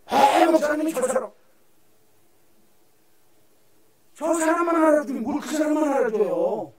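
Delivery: mock jealous complaint. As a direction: throw back the grumbler's words. Mocks jealous congregant's complaint.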